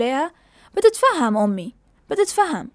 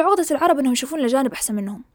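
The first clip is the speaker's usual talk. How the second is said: quoting student; 2 semitones lower, faster than usual. Retold or imitated. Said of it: "قالت له".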